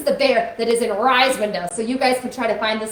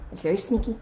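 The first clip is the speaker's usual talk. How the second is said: sneaky hush; 7 semitones lower, 11 dB quieter, faster than usual. Shown as a demonstration. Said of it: "he sounds like this".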